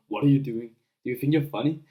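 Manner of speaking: calm, firm, unimpressed challenge; straight face. Shown as a demonstration. Bullied kid confronting the bully, calm and firm. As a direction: ask it flat and steady, like you're not rattled at all. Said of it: "just with a straight face".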